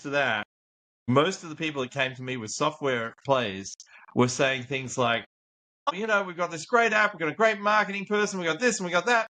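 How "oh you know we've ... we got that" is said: lifts into a high, eager, boastful sales voice; a hammed-up hopeful founder; mock founder pitch. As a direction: send up a bragging founder. Imitating boastful startup founders.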